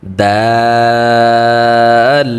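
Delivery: দাল chanted long and soft; long soft Dal. Shown as a demonstration. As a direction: hold দাল for three to four alifs. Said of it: "তিন থেকে চার আলিফ". (নরম করে লম্বা দাল)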